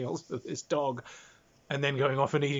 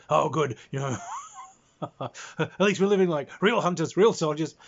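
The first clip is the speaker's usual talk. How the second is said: hammed-up gruff pride, a bit louder; mock tough soldiers; 2 semitones higher, 4 dB louder than usual. Soldiers boasting about K rations, mock tough and loud. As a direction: play the proud grunts in their armor.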